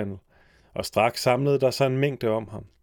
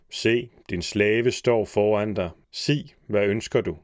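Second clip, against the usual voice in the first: slow, measured servant spirit; a hint of the genie of the lamp, slow; solemn genie; slower than usual. The genie answering the magician who rubbed the lamp, slow and solemn.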